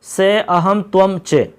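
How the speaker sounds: very slow, each Sanskrit word set apart; slow spelled out. Shown as a demonstration. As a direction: lay the words down one by one for students. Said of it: "मैं और तुम".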